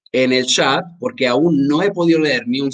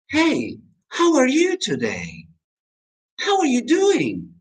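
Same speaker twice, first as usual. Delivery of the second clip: very high, slow "how are you", falling at the end; slow, high-pitched greeting; different intonation demo; 11 semitones higher, slower than usual. Shown as a demonstration. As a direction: stretch it out high, then drop. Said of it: "estoy diciendo la misma cosa".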